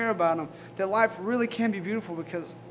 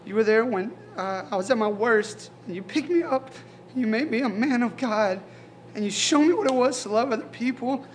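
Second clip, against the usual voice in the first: tearful prayer; 5 semitones higher, 4 dB louder than usual. Real, not acted. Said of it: "I'm sorry that I'm crying".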